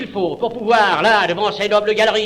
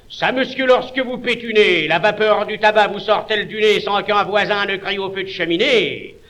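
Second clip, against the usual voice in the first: boisterous, earthy jibe; truculent. Acted.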